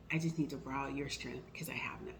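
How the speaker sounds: breathy whisper, barely voiced; whispered plea. Telling friends she needs their strength, whispered. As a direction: confess it in a hushed whisper.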